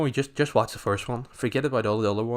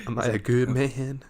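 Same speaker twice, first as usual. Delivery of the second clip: slow, pleading mock tearful question; imitating Ryan. Old Ryan crying at the grave, slow mock tearful plea. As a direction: ask it like an old soldier at a grave.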